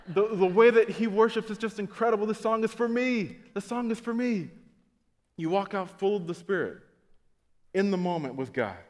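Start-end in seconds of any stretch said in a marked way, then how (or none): 0.1-4.5 mock gushing worshipper. Mimics self-absorbed worshipper.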